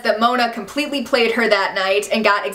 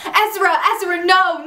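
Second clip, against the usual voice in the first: mock anguish; 6 semitones higher than usual. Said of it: "Arya starts hysterically crying and screaming".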